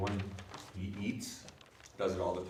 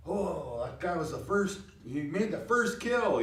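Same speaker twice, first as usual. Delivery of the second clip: high, rising stress on "first"; emphatic; 8 semitones higher than usual. Shown as a demonstration. Teacher showing emphasis on the first kill, high. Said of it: "The emphasis is more not on".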